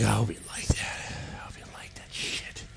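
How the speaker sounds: hushed, breathy gloating whisper; mock whisper. Pat gloating over his mess, in a whisper. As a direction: whisper it like a smug secret. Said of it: "And Pat was like".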